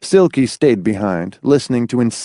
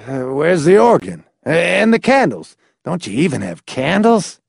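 dismayed; 6 semitones higher than usual. A narrator's reading. McFife dismayed at bare church.

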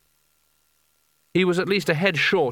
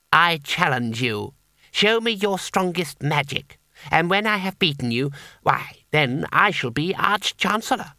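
calm challenge; 4 semitones higher than usual. Acted. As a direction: state the challenge with eerie certainty. Boy challenges the wizard.

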